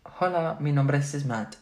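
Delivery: Spanish phrase. Shown as a demonstration. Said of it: "Do you wanna hear a sentence?".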